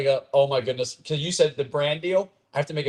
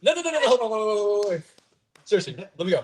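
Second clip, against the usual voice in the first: high frantic no, no, no; repeating louder and sillier; 7 semitones higher than usual. Shown as a demonstration. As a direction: beg to be heard, loud and silly. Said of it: "One more of those".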